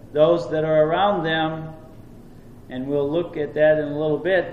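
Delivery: normal talking voice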